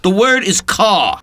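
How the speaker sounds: put-on New York accent. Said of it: "We're New Yorkers".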